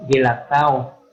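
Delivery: "Gelatao" with a hard G, as in "ga"; hard G sound. Shown as a demonstration. Teacher to online class, showing the hard G in Gelatao. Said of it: "se lee como G".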